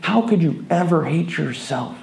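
high, eager, gushing praise; gushing compliments. Retold or imitated. Group gushing compliments at a woman, high and eager. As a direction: pile the praise on her, high and bright. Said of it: "almost attacking her with compliments".

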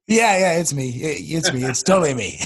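raspy lost voice, like a singer; hoarse rock-singer rasp. Real, not acted. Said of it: "I kinda sound like a singer".

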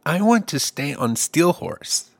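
lightly voiced stubborn small child; four-year-old Superboy. Superboy refusing to get off the statue, lightly voiced child. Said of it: "he'd be four".

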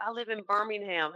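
lightly imitated Southern good old boy; Southern accent. Client tells agent where he lives, lightly imitated Southern accent. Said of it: "thickest Southern accent".

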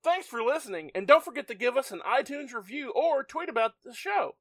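customer service voice. Shown as a demonstration. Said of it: "my customer service voice".

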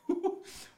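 high, airy whoo; imitated hot exhale; overheated puff. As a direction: puff out like it's sweltering. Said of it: "I was sweating".

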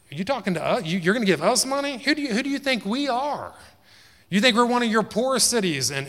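high and loud, offended pride; indignant boast. Acted. Laodiceans refusing Rome's money, loud indignant pride. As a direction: bristle at the insult.

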